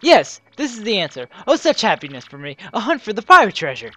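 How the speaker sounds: grand, theatrical rich trader; flamboyant merchant Flavio. Acted. Flavio the trader boasting about his wealth, theatrical. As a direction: play the pompous rich merchant.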